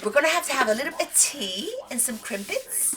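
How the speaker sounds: mock British accent. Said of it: "So British".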